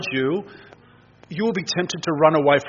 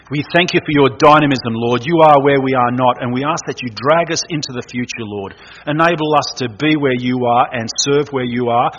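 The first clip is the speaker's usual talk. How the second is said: earnest, louder pastoral prayer voice; closing prayer; 4 dB louder than usual. Acted. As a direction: pray it out over the congregation. Closing prayer led by preacher.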